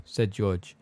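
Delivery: plain reading voice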